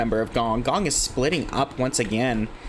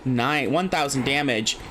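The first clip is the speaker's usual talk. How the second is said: even, measured announcer read of the leaderboard; steady caster listing names and numbers; esports caster stat read; 2 semitones higher, slower than usual. Acted. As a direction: read off the kill leaders like a broadcast. Casting kill leaders.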